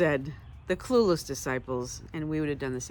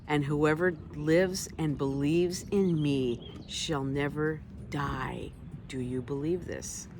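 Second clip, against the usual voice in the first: slow solemn promise; slower than usual. Acted. Jesus comforting Martha, slow and solemn. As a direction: lay each word down gently. Jesus' words read slowly.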